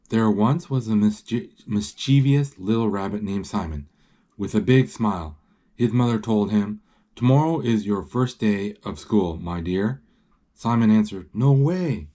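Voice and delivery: measured read-aloud storytelling; story narration. A narrator's reading. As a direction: read the picture book out clearly.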